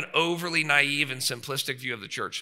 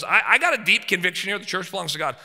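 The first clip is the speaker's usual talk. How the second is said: bold declaration; 5 semitones higher, 6 dB louder than usual. Retold or imitated. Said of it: "So Paul goes".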